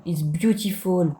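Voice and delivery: put-on slow, drawn-out English with a French accent. Gamer boasting of English, French-accented drawl. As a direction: savour each English word in a French accent. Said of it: "mon accent anglais est incroyable".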